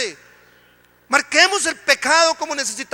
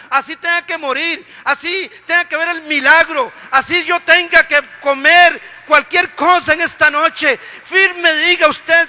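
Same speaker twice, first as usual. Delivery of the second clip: building preached vow; 3 semitones higher, 7 dB louder than usual. Acted. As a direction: rise from steady faith to a full shouted vow. Preacher voices the believer's vow.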